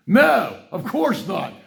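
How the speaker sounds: sarcastic. Real, not acted. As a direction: scoff at the idea. Sarcastic reply to own reading.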